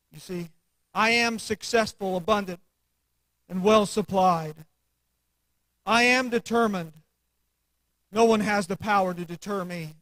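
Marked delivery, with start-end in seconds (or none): 0.9-4.7 steady, firm affirmation with weight on am; with conviction. Shown as a demonstration. Preacher modelling self-talk, firm and sure. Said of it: "you have to say it with conviction to yourself". 5.9-9.9 firm affirmation, am pressed down; with conviction. Shown as a demonstration. Preacher modelling self-talk, firm and sure. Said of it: "you have to say it with conviction to yourself".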